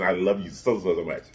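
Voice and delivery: soft, tender, trailing off; sweet nothings. Real, not acted. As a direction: murmur it like a lullaby. Welcoming cousin to the Legion.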